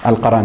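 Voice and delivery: القرن said "al-qaran", with an a after r; القرن with the ra opened by an a vowel; fatha on the ra. Shown as a demonstration. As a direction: say القرن as "al-qa-ran". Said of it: "وفتحها".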